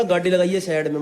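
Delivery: imitated Haryanvi command; thick Haryanvi accent. Quoting the stranger's order to pull over, Haryanvi accent. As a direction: put on broad Haryanvi vowels. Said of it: "एकदम खड़ी हरियाणी में बोला".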